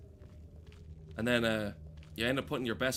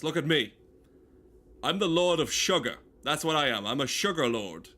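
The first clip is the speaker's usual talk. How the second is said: loud, puffed-up lord; grandiose boast; 3 semitones higher, 6 dB louder than usual. Pretend. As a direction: proclaim it like a vain lord.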